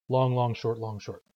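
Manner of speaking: each long held, each short kept quick; rhythm demonstration. Shown as a demonstration. Teacher giving learners the rhythm, long held and short quick. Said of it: "And the rhythm of".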